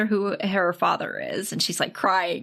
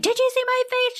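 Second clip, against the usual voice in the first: mock menacing kidnapper. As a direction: ham up the kidnapper demanding. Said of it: "He's like".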